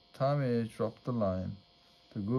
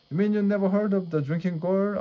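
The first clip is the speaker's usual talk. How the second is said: put-on scoffing boy; 9 semitones higher, 6 dB louder, faster than usual. Boy scoffs at Tommy's ignorance.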